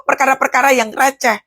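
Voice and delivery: ordinary talk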